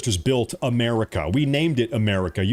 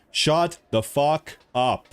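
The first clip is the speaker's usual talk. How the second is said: slow angry; 2 semitones higher, much slower than usual. Real, not acted. Angry rant at critics.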